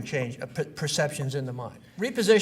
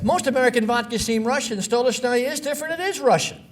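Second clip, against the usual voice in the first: punchy ad announcer read, louder and higher; ad quote; 7 semitones higher, 4 dB louder than usual. Retold or imitated. Speaker reading a rival vodka ad to the class, punchy announcer voice. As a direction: read it like a proud vodka commercial tagline. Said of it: "Then along came this ad".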